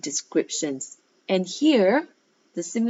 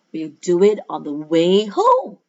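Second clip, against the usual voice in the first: excited cry; 7 dB louder than usual. Acted. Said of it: "they cried".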